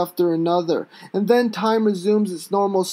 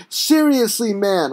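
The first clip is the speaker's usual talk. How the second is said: holler. Acted. Held down on the street, he hollers at the cop. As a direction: holler like a crazed man. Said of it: "I holler at him like a deranged freak".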